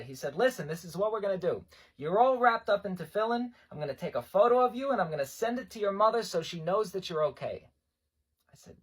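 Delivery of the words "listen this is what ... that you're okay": lightly voiced rabbi, louder and higher; emphatic rabbi. Rabbi promising a recruit news for his mother, emphatic. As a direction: lay out the plan insistently.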